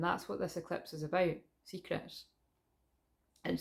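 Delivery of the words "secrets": breathy whispered word. Real, not acted. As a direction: whisper it for effect.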